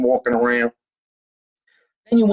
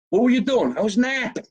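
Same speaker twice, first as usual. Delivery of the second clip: mock exchange; 9 semitones higher than usual. Mock dialogue about napping.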